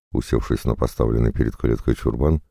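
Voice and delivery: usual speaking voice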